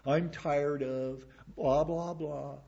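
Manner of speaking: slow, dismissive whiny drone; mock complaint. Member railing against the pastor, mocking slow whine. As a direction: mimic a bored complainer. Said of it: "If they wanna rail against the pastor".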